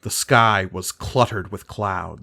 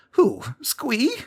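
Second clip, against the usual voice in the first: very high, timid goblin squeak; whimpering goblin. A narrator's reading. Squee answers Gerard, timid whimper. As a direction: shrink from the task. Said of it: "whimpered the little green man".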